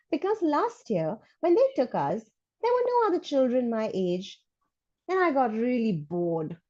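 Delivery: put-on bright, eager kid reading a letter; chatty schoolkid, high and lively; child voice. Reads child's letter in character.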